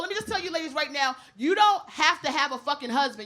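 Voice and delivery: ordinary delivery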